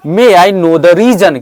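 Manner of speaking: slow, deliberate English for the class; slow model sentence. Shown as a demonstration. Teacher slowly models a question for the class. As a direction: spell it out slowly for learners. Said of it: "क्या बोलेंगे?".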